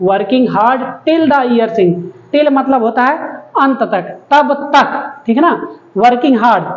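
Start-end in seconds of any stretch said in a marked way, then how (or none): 0.1-2.1 slow, word-by-word classroom reading; slow reading aloud. Shown as a demonstration. Teacher reading the line to the class, very slowly. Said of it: "teacher reads poem line slowly".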